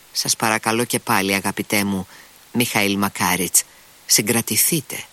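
plain reading voice

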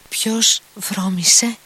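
high, slow, astonished question; surprised. A narrator's reading. Grushenka startled by Rakitin's words, high and slow. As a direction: ask it as if you cannot believe it.

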